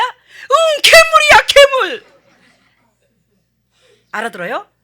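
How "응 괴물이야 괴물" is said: put-on very high, very loud child's cry; imitating a little child crying monster; frightened child. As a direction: squeal it like a scared toddler. Child voiced, naming monster.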